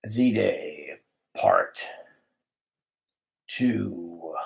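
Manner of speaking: low, slow, separated words; word-by-word dictation. Real, not acted. Dictating to a device that misunderstands him, low and halting. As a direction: dictate it low, pausing after each word.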